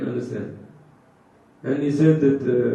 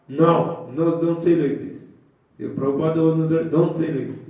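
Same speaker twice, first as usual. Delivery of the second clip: firm rebuke; 4 semitones higher, 5 dB louder than usual. Retold or imitated. Guru scolds disciple in story.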